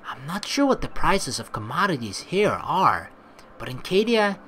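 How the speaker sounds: low, dry, suspicious woman; a low sceptical mutter, grudging; low stern Retona. Acted. Wary companion giving in to her friends, low and dry.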